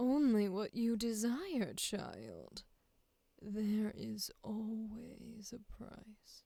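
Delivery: seductive, very slow, drawn-out, sultry delivery. Trying out sultry words for a line, sultry. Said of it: "What if we do sultry words for this?".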